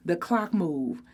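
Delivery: usual speaking voice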